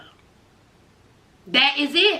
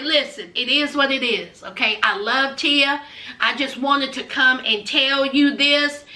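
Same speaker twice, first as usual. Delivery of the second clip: lower, dismissive tone; cool dismissive Nicole; 5 semitones lower than usual. Retold or imitated. Nicole dismissing her ex, low and offhand. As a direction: brush him off low and matter-of-fact.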